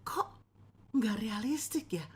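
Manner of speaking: a listener muttering doubts under breath; whispered grumble. Retold or imitated. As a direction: whisper it, unimpressed. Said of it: "Gitu ya".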